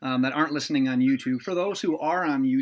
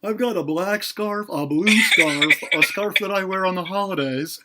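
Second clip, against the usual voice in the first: white guy impression; 3 semitones higher, 6 dB louder than usual. Mocking his co-host's scarf list, hammed-up white guy impression. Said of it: "it's a good white impression".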